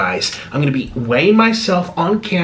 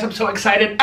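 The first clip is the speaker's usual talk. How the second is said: laughing excitedly; 6 semitones higher than usual. Real, not acted. Laughs over the fries.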